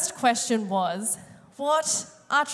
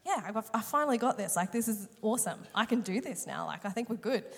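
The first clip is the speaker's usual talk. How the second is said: softer, casual murmur to oneself; self-assured inner monologue; 6 dB quieter than usual. Retold or imitated. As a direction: quietly voice pleased private thoughts. Acting out her confident inner thoughts.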